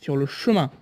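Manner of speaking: slow, spaced-out words; lifeless commentary. Real, not acted. Admitting to viewers how he comments his videos, lifeless and slow. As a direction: plod through it slowly, dragging the words. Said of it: "comme quelqu'un qui commente un âne qui vient de mourir".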